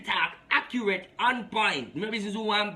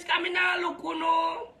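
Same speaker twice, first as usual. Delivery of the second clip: shouting; 8 semitones higher than usual. Real, not acted. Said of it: "repeats phrase shouted".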